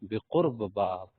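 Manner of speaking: بقرب باب said slowly, every sound clear; unhurried classroom demonstration; slow model phrase. Shown as a demonstration. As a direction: spell it out slowly for students. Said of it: "قرب لفظ بھی بول سکتے ہیں".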